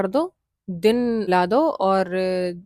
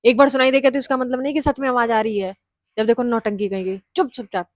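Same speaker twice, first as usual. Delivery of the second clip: louder, fast scolding of a scared friend; 5 dB louder, faster than usual. Retold or imitated. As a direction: snap her into silence, quickly. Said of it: "डाँट के मैंने कहा था". (डरी सहेली को तेज़, ज़ोर से डाँटते हुए)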